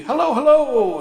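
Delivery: high, loud hearty greeting; bright, bouncing hello to old friends; cheery hello. Acted. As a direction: boom it out like a jolly scoutmaster. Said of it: "greeted them both with cheery".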